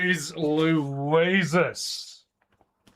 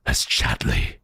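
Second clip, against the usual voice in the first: much lower growled name; monster growl. Acted. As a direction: snarl it like a beast. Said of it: "a vile creature".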